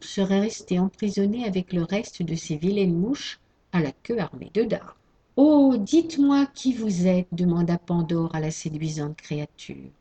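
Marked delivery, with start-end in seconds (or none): 5.4-7.3 eager plea. Acted. Pandora eagerly asks Hope.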